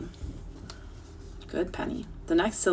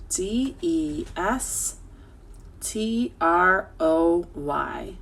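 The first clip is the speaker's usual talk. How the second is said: slow, drawn-out letters; slow spelling; much slower than usual. Shown as a demonstration. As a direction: spell each letter slowly. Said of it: "spelling slowly".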